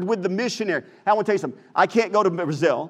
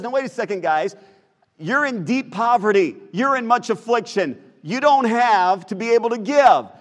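mildly raised, emphatic objection as Paul; higher-pitched, earnest protest; 3 semitones higher, 3 dB louder than usual. Acted. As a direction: push back insistently, getting louder toward the end. Preacher voices Paul protesting to givers.

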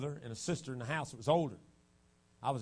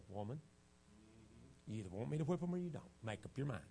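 stern father; 3 semitones lower, 8 dB quieter than usual. Retold or imitated. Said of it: "he just said".

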